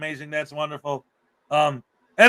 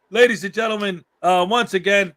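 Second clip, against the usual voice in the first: hype announcer; 4 semitones higher, 5 dB louder than usual. Acted. Hyping cohost to the audience.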